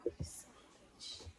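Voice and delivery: soft whispered mock curse; hushed, voiceless imitation of swearing; retold cursing under breath. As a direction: hiss it quietly, re-enacting resentment.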